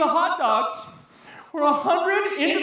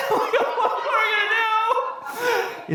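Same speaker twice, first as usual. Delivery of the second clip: comic panic; 5 semitones higher than usual. Acted. Traveller after powder explodes in car, panicked. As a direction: wail it in hammed-up despair.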